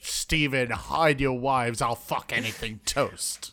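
low, slow, hammed-up billing; mock character introduction. Co-host grandly introducing Steven Toast, low and slightly hammed-up. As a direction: drop the pitch and draw out the name.

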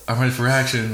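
lightly voiced British lady; hint of a gadget voice announcing readiness; imitating British speaker voice. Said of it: "it's like".

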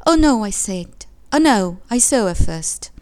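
put-on loud, indignant cry of a child; child's protest. A narrator's reading. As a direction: cry out in protest over a grabbed toy. Child protesting over grabbed doll.

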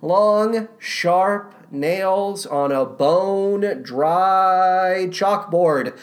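slow, stretched words; drawn-out disgust. Real, not acted. Critic panning annoying performances, slow drawn-out disgust. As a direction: drag out each word for emphasis.

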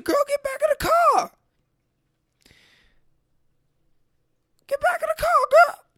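very high, loud squealing mock accent, hammed up; mock Japanese accent. Comic showing off his Japanese accent, squealed high and loud. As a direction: shriek it in a badly faked Japanese accent. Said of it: "kinda goes like this".

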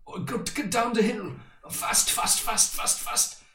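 high-pitched, excited downhill rush; excited re-enactment. Retold or imitated. Rider reliving a bike ride down the hill, excited.

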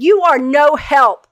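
loud, high, drawn-out rebuke; exasperated scolding. Retold or imitated. Wife to husband doubled over laughing, exasperated. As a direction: act out an indignant yell, word by word.

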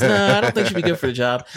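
put-on high, fast old lady voice. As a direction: play a fussy old lady on the phone. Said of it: "that's my old lady voice".

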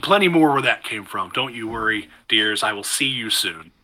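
sweet granny who is happily fussing over the villagers; chipper grandmother. Acted. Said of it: "a chipper tone kinda speaking along".

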